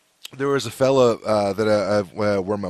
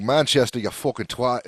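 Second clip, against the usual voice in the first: imitated Manchester accent, raised in pitch; Mancunian accent; 3 semitones higher than usual. Offended local correcting the guesser, in imitated Mancunian accent. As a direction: put on an indignant Mancunian. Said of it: "Mancunian accent there was better".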